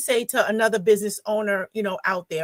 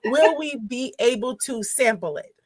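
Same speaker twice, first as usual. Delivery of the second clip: measured, more careful question; slowed down after rushing; 2 semitones higher than usual. Real, not acted. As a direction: rein in the excitement and space the words out. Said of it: "I'm talking too fast".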